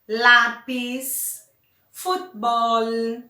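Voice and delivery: lápis and futebol said slowly as stress examples; stress on penultimate syllable. Shown as a demonstration. Teacher gives examples of graves, next-to-last syllable stressed. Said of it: "se a sílaba tiver o acento na".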